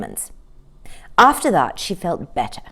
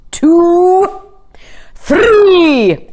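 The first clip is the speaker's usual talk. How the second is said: higher, louder count, building; counting aloud; 10 semitones higher, 6 dB louder than usual. A narrator's reading. The king counting the cow down to her jump: loud rising count. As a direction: count it out like a starter's call.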